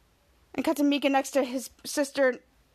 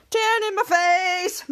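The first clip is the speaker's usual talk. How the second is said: slow blissful; 4 semitones higher, slower than usual. Acted. Ray lounging under the tanning lamp.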